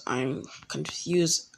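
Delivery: slow, soft repeat. Retold or imitated. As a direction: drag the words out. Zabuza repeats, drawn out.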